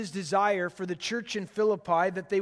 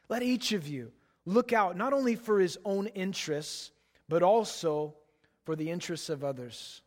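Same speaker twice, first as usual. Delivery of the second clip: scripture reading. Acted. Pastor reading Philippians to the congregation, solemn and measured. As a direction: read the verses to the congregation with weight.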